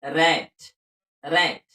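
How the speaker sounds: रैट with a wide open ae vowel; रैट, slow classroom demo; teacher's model word. Shown as a demonstration. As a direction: say रैट like rat, clearly. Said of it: "इसको रैट पढ़ेंगे".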